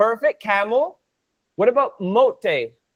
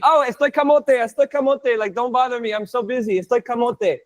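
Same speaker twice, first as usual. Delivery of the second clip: mock busy person. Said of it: "that's how normally people will".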